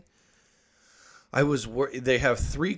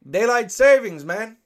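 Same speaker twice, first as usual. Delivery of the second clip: imitating the foreman; 11 semitones higher, 7 dB louder than usual. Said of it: "And he goes".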